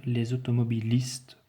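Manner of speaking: automobilistes with a hissed S before the T; voiceless S. Shown as a demonstration. Teacher showing pupils the S in automobilistes, clearly hissed. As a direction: say automobilistes with S, not Z. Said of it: "par conséquent je vais dire".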